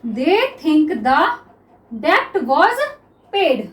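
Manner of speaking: each word drawn out slowly for students; very slow classroom dictation; slow dictation read. Shown as a demonstration. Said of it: "आ गया समझ में?".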